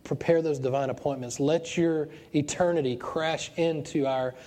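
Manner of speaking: earnest pastor's prayer voice; closing prayer. Acted. Pastor praying over his standing congregation, earnest prayer. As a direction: pray over them, earnest and fervent.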